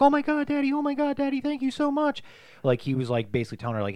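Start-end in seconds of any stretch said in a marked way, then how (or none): 0.0-2.2 high, excited squeal; excited girl. Retold or imitated. Daughter thanking her dad, excited. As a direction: gush like a thrilled kid. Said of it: "She was like".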